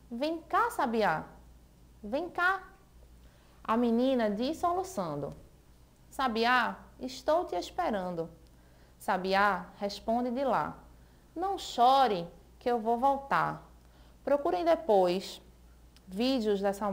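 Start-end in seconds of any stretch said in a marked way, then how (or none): 0.1-2.6 higher-pitched call to the bird; little girl calling. Acted. Girl calling her lost bird home, higher voice. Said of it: "E a menina vive a chamar". 3.6-13.6 put-on lilting, sing-song reading of a children's song; song lyrics read aloud. Teacher reading a children's song to the class, lilting.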